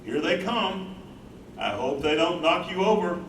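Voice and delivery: ordinary talk, nothing marked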